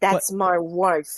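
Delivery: slow, nasal, throat-blocked imitation; mocking Blanca's wife's voice. Cohost mocks the wife's annoying voice, slow and nasal. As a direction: drag it out through a pinched nose. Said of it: "The way she talks irritates me".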